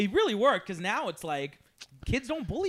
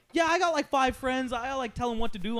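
lightly voiced kid, higher and louder at first; boastful young nephew; 5 semitones higher, 3 dB louder than usual. Young nephew telling uncle about his friends, lightly voiced boastful kid. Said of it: "So I'm always asking him".

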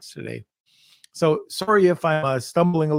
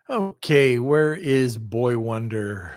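normal talking voice

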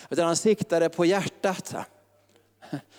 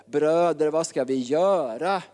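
crying out; 3 dB louder, slower than usual. Retold or imitated. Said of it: "Och de ropade".

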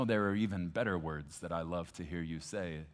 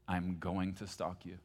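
tender prayer. Acted. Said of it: "and sounded like this?".

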